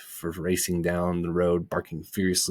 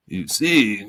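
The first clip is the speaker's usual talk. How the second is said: conciliatory; 3 semitones higher, 6 dB louder than usual. Acted. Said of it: "in a more conciliatory tone".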